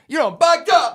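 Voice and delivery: loud, high impression of a Black accent; Tom Segura's black voice. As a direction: shout it like a comic's Black voice. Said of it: "Tom Segura doing his black voice".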